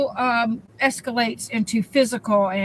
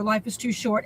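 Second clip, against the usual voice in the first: much softer, lower repeat of "Life is too short"; softer echo; 3 semitones lower, 5 dB quieter than usual. Shown as a demonstration. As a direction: let "Life is too short" drop to a soft, low echo. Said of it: "repeated plea to viewers".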